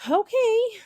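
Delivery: high, loud kind okay; kindly. Acted. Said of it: "said Ralph kindly".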